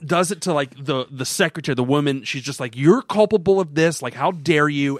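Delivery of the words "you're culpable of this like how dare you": indignant accusation. Retold or imitated. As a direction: lightly act out accusing someone. Acts out accusing the secretary.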